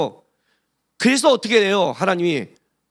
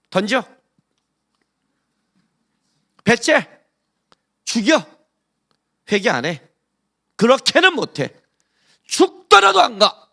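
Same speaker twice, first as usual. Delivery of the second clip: stubborn Jonah refusing; 4 semitones higher, 4 dB louder than usual. Retold or imitated. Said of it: "근데 이렇게 말하는 거예요".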